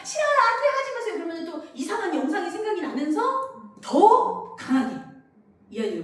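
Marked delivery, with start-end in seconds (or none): 0.0-1.1 put-on loud, high child refusal; a child yelling a practiced refusal; refusal drill. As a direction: shout the old no-go-tell lines. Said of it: "얘가".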